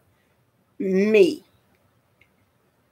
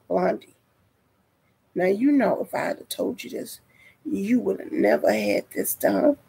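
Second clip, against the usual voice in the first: calm doctor; 7 dB quieter than usual. Retold or imitated. Voices the calm doctor replying.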